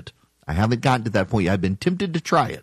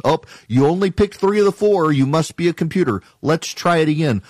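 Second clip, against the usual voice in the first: mock computer voice; 5 semitones higher than usual. Mocking a website captcha.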